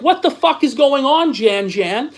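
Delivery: mock confused fan. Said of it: "they're like".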